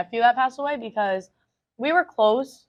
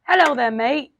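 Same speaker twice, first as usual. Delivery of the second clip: playful put-on Australian accent, higher voice; 4 semitones higher, 3 dB louder than usual. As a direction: try an Aussie accent for a greeting. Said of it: "That's Australian, right?".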